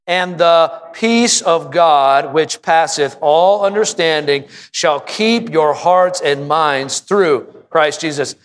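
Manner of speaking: slow, measured reading of a Bible verse; slow scripture reading. Acted. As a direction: read each phrase slowly with the congregation. Reads verse slowly with congregation.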